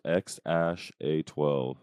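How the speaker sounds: "X ash A twelve", with A E said as "ash"; pronunciation demo. Shown as a demonstration. Co-host showing how the name is pronounced, "X ash A twelve" said slowly. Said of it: "it's pronounced".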